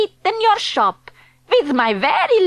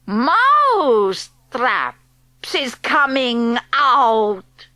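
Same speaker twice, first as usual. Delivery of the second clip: raised voice; 2 semitones lower, much slower than usual. Acted. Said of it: "She raised her voice".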